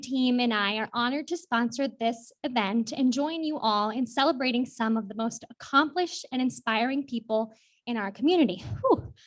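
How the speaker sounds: breathless after running up; slightly winded, catching breath. Real, not acted. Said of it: "I ran up here and I'm out of breath".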